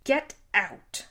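high, loud yell; screaming. Acted. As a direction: scream him out of the house. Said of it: "his voice rising to a scream".

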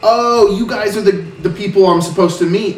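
put-on half-hearted dock master's accent, welcoming the party; a loosely held dock master's accent, the GM admits it is not good. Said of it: "I'm just gonna give up on his accent".

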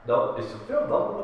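high-pitched plea, half-joking, near tears; playfully hammed-up teary denial; mock tearful protest. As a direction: plead with yourself, fighting back the tears at a film. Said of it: "I'm like".

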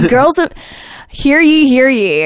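high, loud proclamation call; town crier. Pretend. Mock proclamation to dating app.

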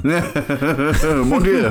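playful French exclamation; French accent. Pretend. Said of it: "I'm just a Frenchman".

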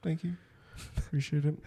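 soft-spoken lounge charmer; mock suave gentleman. Setting the mood with a lady over drinks, mock-suave. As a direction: play the smooth date, easy and quiet. Playing suave man on a date.

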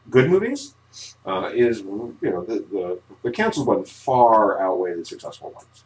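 hollow cave echo. Real, not acted. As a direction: sound like you're in a cave. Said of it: "you sound like you're in a cave".

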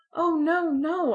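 high, loud and frantic protest; wildly. A narrator's reading. Girl wildly denying to Sidney she's grown, high and loud. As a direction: burst out in a high rush of denial. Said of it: "I said wildly".

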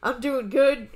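a hint of someone cheerfully boasting; New Jack. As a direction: list it off in short, emphatic bursts. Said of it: "he would phrase it like that".

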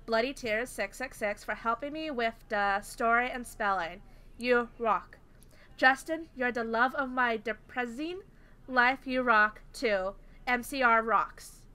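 halting read-aloud of garbled text; weird literal reading. Acted. Host reading bad fanfic to friends, weird literal reading. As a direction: sound out each misspelling as written. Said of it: "if I sound weird, it's because I'm actually reading it".

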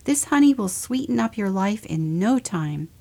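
soothing honey seller; sweet motherly voice. Acted. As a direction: comfort him sweetly. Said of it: "said the bear".

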